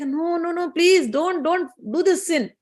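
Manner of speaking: a storyteller's urgent "no, no"; pleading refusal. Acted. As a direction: beg him to stop, lightly acted. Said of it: "She's like".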